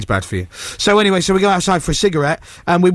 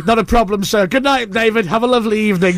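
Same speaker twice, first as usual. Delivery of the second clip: higher-pitched mock politeness; fawning guard; 5 semitones higher than usual. Guard waving celebrity straight through, mock fawning. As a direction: gush politely like a deferential guard.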